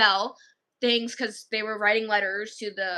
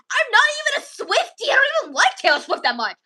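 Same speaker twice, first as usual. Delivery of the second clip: high, loud retold protest; hammed-up indignant denial; mock protest; 12 semitones higher, 5 dB louder than usual. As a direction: protest it in an exasperated high pitch. Retold protest to insistent kid.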